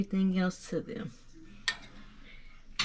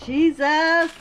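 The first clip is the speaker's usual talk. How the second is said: sudden high loud outburst; startled exclamation; 10 semitones higher, 9 dB louder than usual. Real, not acted. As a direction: blurt it out in shock. Sudden shock at the cooking pot.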